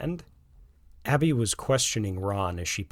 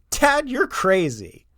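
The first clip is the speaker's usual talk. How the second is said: giggling; 12 semitones higher, 9 dB louder, slower than usual. Acted. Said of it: "Josh kept giggling while telling him".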